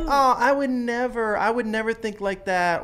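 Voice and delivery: mock saintly. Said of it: "we wanna be like".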